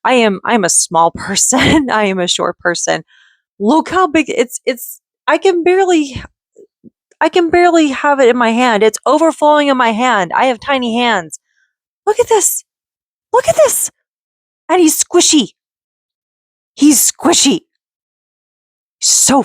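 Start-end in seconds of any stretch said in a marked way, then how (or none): 3.6-11.4 high, excited gushing over a toy; bubbly delight at the size. Real, not acted. Gushing over big toy duck. 12.1-12.7 very high squeaky cute voice; cutesy squeal. Real, not acted. Showing off new ducky. 13.3-13.9 even higher squeaky cute voice, rising; cutesy squeal. Real, not acted. Showing off new ducky. 14.7-19.4 high, louder cute voice; cutesy voice. Real, not acted. Squeezing squishy duck.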